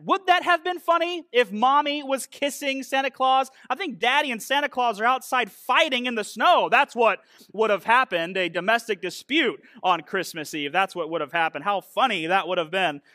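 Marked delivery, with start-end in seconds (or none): 0.0-10.7 raised-pitch sarcastic protest; mock incredulity. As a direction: question the lyrics in comic disbelief.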